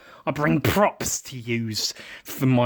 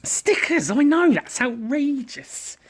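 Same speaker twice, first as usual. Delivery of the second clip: high, hammed-up amazement; mock astonishment; 13 semitones higher than usual. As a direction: pretend it's scandalous. Mock shock at stickers.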